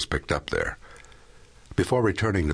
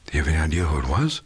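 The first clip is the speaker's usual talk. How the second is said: alert man on phone; much faster than usual. A narrator's reading. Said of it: "which was no longer sleepy".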